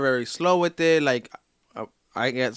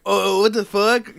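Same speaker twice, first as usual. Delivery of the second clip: higher, slow mock shock; shocked reaction; 7 semitones higher, 5 dB louder, slower than usual. Canvasser hearing he just took mushrooms, mock shocked. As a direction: stretch out the disbelief.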